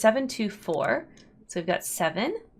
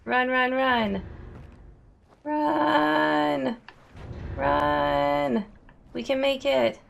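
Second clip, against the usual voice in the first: yelling while running away; 6 semitones higher, much slower than usual. Real, not acted. Racing to catch the lift again.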